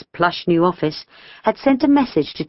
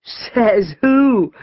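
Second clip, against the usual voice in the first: cheeky challenge in a character voice; demanding; 3 semitones higher than usual. A narrator's reading. George challenges Amber's promise, demanding. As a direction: demand it like a defiant schoolboy. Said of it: "George demanded".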